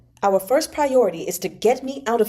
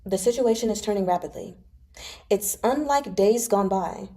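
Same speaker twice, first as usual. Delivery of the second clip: sorrowful. Acted. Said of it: "Shen Zichuan's tone turned sorrowful".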